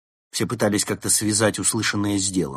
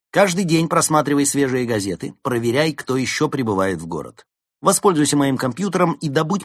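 громко и высоко, по-командирски; раздавать приказы с воодушевлением; бодрый командир; 6 semitones higher, 5 dB louder than usual. Acted. Улис раздаёт поручения. (воодушевлённый лидер)

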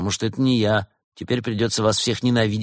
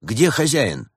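slightly raised nervous question; 4 semitones higher, slower than usual. Acted. Badger questions the bear about her husband, nervously. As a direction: ask with a touch of nerves. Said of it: "нервно спросил барсук медведицу".

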